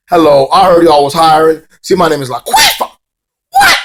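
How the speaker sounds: lightly hammed-up character voice, ending on a squawk; mock character introduction. Mimicking Kong's entrance.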